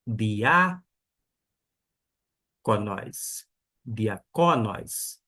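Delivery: diáconos said slowly, stress on the syllable before last; stress on the penultimate syllable. Shown as a demonstration. Teacher slowly models diáconos for the class. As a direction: draw out diáconos, leaning on its middle syllable. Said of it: "Por que eu pronunciei diáconos".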